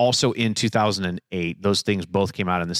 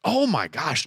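retold shock; 6 semitones higher, slower than usual. Retells own shock at an ending.

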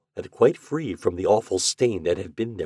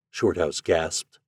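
plain reading voice

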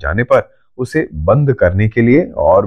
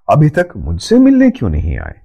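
higher-pitched, sulky question; mildly hurt; 6 semitones higher, faster than usual. A narrator's reading. Vibha asks why grandfather has not visited her, slightly sulky. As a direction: ask as if a little slighted. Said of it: "रूठ सी गई".

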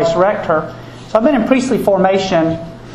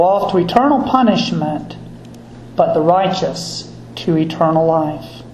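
solemn liturgical reading; Gospel reading. Acted.

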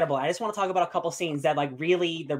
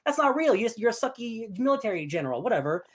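mock scoff; 6 semitones higher than usual. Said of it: "And I'm like".

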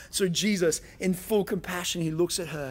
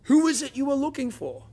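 Jesus asking; 9 semitones higher, 4 dB louder than usual. A narrator's reading. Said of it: "asks her".

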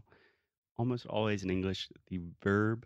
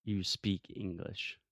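"You speak English" said slowly and evenly; measured, softer model of "You speak English"; corrective demo; 5 dB quieter, slower than usual. Shown as a demonstration. Teacher corrects student's extra word, slow corrective demo. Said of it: "you said, "Do you speak in English?".

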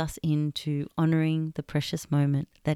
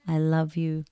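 whispered. Shown as a demonstration. Leading listeners to whisper the mantra first, in a whisper. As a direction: whisper the words, no voice. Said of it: "Whisper it at first".

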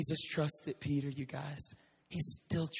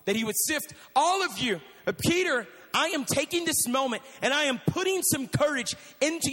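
higher and louder, urging Peter with rising force; Jesus voiced with urgency; 6 semitones higher, 3 dB louder than usual. Preacher voicing Jesus urgently encouraging Peter. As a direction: pour courage into him, louder. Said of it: "He says".

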